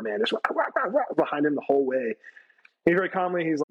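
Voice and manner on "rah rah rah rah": imitated barking. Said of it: "like a dog chasing a car".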